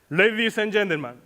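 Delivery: imitating a fight announcer with a long, shouted final word; boxing ring announcer. Speaker of the combat introduces the exam fight, ring announcer's shout. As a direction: stretch the last word into a big falling ring call. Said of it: "my entry would be something like this".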